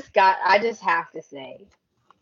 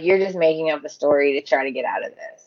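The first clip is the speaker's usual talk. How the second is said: mock accusation; 6 semitones lower, much faster than usual. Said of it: "They're like".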